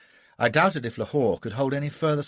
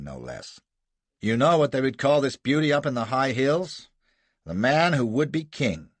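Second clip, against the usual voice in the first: louder, sardonic roll-call of crimes; mocking introduction; 3 dB louder than usual. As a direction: present him like a showman. Gardner mock-introducing Jasser.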